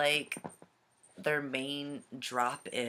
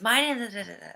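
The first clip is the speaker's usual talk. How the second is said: put-on high, louder, garbled excited kid; higher-pitched mock kid babble over the name; imitating excited little girl; 8 semitones higher, 6 dB louder, faster than usual. Little girl answering a name question, too excited to understand. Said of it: "She was way too excited".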